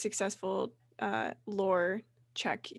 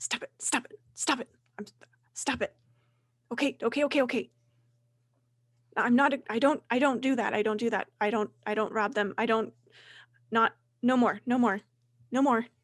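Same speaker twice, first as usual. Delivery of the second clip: put-on shivering, frightened, trembling old man voice; 2 semitones higher than usual. Voicing a shivering old man begging intimidating adventurers to stop: frightened old man voice. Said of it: "he starts shivering a little bit".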